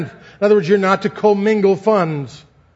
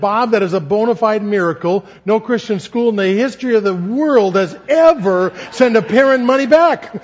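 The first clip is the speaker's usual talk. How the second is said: excited marvel; 3 semitones higher than usual. Retold or imitated. Telling Bob the refund is a miracle, excited and rising. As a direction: build to a delighted, joking climax.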